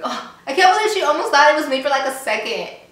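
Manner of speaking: high, loud affected accent, mock-offended; too-delicate put-on accent. Too-delicate girl reacting to an onion remark, in an affected accent. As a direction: put on a precious, scandalised accent. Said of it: "I don't know why I had that accent".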